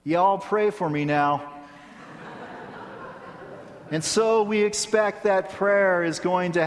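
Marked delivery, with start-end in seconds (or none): 0.0-1.5 put-on slow, drawled Southern child's plea; a charming Southern drawl, slowly; Southern accent. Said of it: "a charming Southern accent".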